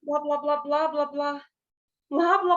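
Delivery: plain gibberish syllables "blá, blá, blá"; blablação gibberish. Shown as a demonstration. Teacher demonstrating gibberish to her class. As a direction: repeat "blá" as nonsense speech. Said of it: "eu tenho que usar outros meios pra dizer".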